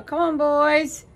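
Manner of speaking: loud, high, drawn-out call; summoning the dogs inside at full volume; yelling for the dogs. Retold or imitated.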